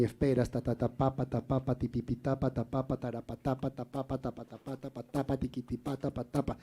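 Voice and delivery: soft chanted "ta pa" syllables marking the beat; rhythm scansion. Shown as a demonstration. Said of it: "puedes cambiar la sílaba por un ta".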